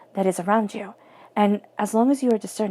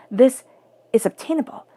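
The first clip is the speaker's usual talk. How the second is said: THIS raised and loud, then OBTAINABLE lifted like a question; self-doubting question; 3 semitones higher, 4 dB louder than usual. Acted. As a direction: ask yourself whether it's really OBTAINABLE, voice rising. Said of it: "like a question to yourself".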